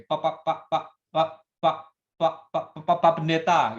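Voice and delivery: stammering over every repeated Pak; stutter. Acted. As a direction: act out a man who stammers. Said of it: "orang ini gagap gitu ya". (bicara gagap)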